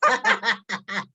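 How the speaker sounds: loud, high whoop of recognition; excited cheer. Real, not acted. Host cheering for guest's cartoon namesake, excited. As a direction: cheer out the heroine's name.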